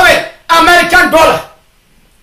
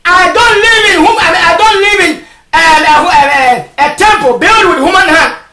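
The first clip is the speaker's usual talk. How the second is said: insistent, raised sermon voice; full-force preaching; 4 semitones higher than usual. Real, not acted. Preacher rebuking those who smoke, forceful preaching. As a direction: press the point hard on the listeners.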